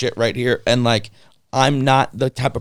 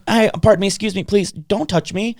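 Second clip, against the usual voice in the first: strained politeness; 6 semitones higher than usual. Retold or imitated. Politely stopping a nurse touching him.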